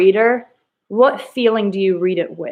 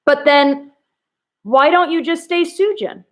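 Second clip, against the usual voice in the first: higher, trailing with a pause after then; hesitant pause at the ellipsis; 7 semitones higher than usual. Shown as a demonstration. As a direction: let it hang before why. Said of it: "she's uncomfortable".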